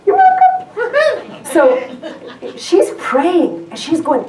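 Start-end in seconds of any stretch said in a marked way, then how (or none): 0.1-1.4 very high, slow, put-on voice; mock sweet reply. A sister answering her brother's thanks in a high teasing voice.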